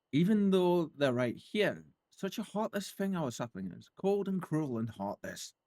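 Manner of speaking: a hint of a high, theatrical fae lament, slowed; mock-wounded fae sighing over her heartless sapling; lightly voiced scornful fae. Streamer voicing the fae branch to the player, mildly hammed-up. Reading the NPC's lines aloud.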